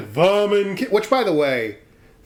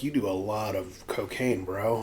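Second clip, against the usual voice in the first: laughing aside; 4 semitones lower, 8 dB quieter than usual. Retold or imitated.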